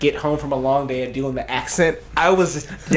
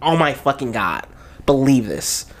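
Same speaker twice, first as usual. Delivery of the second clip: put-on Valley girl accent. Friend reads the literally lines, Valley girl accent. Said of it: "like, a white Valley girl accent".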